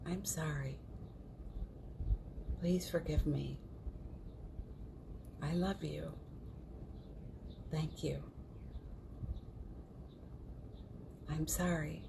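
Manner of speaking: quiet, unhurried recitation; guided mantra. Real, not acted. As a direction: lead them gently through a healing mantra, pausing after each phrase. Leads a Ho'oponopono recitation.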